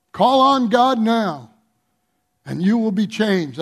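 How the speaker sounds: hint of an infomercial pitch; lightly hammed-up TV ad read. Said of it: "It sounds like an infomercial".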